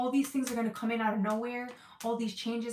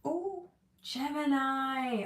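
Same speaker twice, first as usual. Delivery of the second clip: drawn-out ooh; 4 semitones higher, much slower than usual. Acted. Drawn-out call to Gemini.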